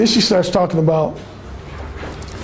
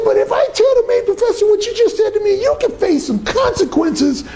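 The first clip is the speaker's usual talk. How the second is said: threatening instructor; 13 semitones higher than usual. Retold or imitated.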